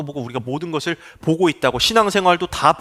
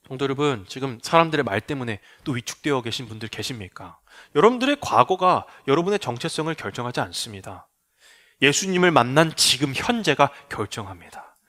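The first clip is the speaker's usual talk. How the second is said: gentle appeal; 4 semitones lower, 4 dB quieter than usual. Acted.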